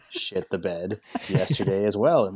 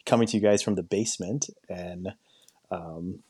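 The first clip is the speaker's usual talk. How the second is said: echoey phone audio from a basement. Real, not acted. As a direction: sound like a phone call from a basement. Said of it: "I'm coming to you from my phone".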